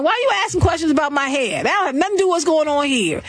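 fast, irritated retort; a rapper in court. Retold or imitated. A rapper snapping at the lawyer in court, fast. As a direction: rattle it off, annoyed. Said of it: "a rapper up in there saying".

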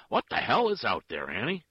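loud irritated shout from another room; calling out. A narrator's reading. Husband calls to his wife from within, shouting. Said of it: "her husband called".

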